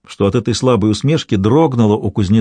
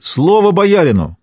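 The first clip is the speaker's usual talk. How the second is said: ringing call; 8 semitones higher than usual. A narrator's reading. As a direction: call out Слово боярину as a plea to be heard. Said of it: "звонко выкликивая".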